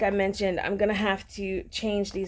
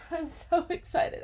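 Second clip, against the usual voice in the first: excited laugh; 7 semitones higher, 5 dB quieter than usual. Real, not acted. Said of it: "I'm gonna cry".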